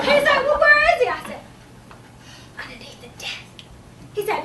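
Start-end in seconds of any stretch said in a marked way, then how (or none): 0.4-1.1 high, loud demand; questioning administrator. Acted. Administrator asks teacher about the screamer, high loud demand. 2.6-3.6 sheepish admission. Acted. Teacher admits where the screamer is, hushed and sheepish.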